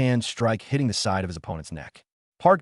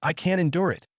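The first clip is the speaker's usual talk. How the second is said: raised, pushed-up yell; mock roar; 7 semitones higher than usual. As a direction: throw out a light roar. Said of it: "ending with a roar".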